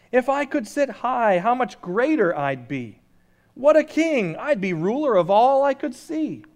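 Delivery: grandiose king. Acted. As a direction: puff up with royal pride. Yertle dreams of a higher throne.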